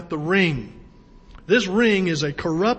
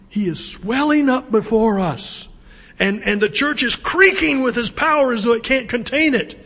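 loud, raised preaching swell; impassioned preaching; 5 semitones higher, 5 dB louder than usual. Real, not acted. Preacher telling church of Christ's creaking power, impassioned swell. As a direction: let the voice climb with mounting power.

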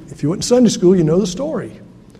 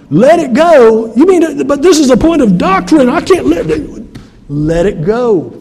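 objecting churchgoer; 6 semitones higher, 5 dB louder than usual. Retold or imitated. Pastor voicing a congregant's indignant objection. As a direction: play the stubborn believer who can't let go.

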